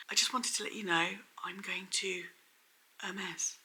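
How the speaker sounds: whispered, heavy with hidden meaning; bad acting. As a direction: whisper it like a secret hint. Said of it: "she basically delivered it like this".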